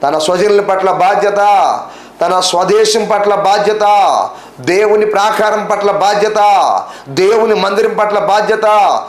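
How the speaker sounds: high, sustained preaching cadence; fervent preaching. Real, not acted. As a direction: build the list phrase by phrase, pitch held up. Preacher chants a repeated refrain. (ఆవేశంగా, ఎత్తైన స్వరంతో ప్రసంగం)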